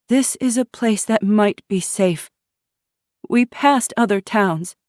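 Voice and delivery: a frightened pregnant woman asking to be let in; pleading refugee woman. Acted. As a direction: plead for shelter, anxious. Teresa pleads her case.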